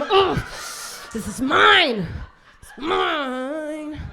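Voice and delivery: loud possessive grunt; mock proud claim. Comic miming a proud wanker, loud claim. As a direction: stake your claim loudly. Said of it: "a Captain Morgan leg to stake your claim".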